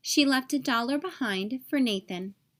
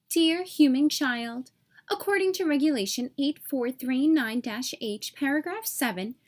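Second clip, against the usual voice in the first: officious fairy bureaucrat. Acted. Tooth fairy's form letter to Nathan, stiff officious bureaucrat. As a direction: read it like a dry regulation clerk.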